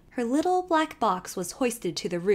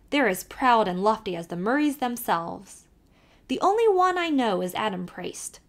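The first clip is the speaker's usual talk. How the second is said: put-on lively Irish accent, calling to the horse; old Irish driver calling out; Irish carter; 3 dB louder than usual. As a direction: urge the nag on in a brogue. Kelly gossips about Priest Pond.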